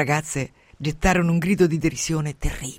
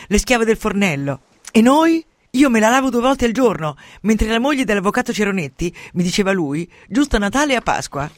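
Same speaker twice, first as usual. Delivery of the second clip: 1 jealous shrill outburst; 5 semitones higher, 7 dB louder than usual. Acted. A woman's jealous outburst voiced.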